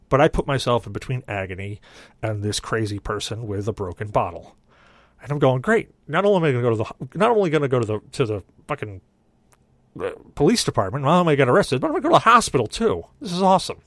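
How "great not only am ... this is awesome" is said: rising panicked sarcasm; fast, climbing, exasperated; sarcastic panic. Retold or imitated. Panicked sarcastic inner thought.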